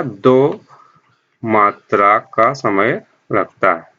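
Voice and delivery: मात्रा का समय लगता है said slowly, word by word; slow down to drive the point home; slow emphasis. Shown as a demonstration. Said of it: "दुगुना समय लगता है".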